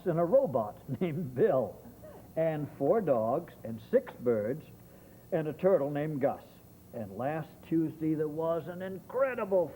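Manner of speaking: lively rhyming read-aloud; story narration. Acted.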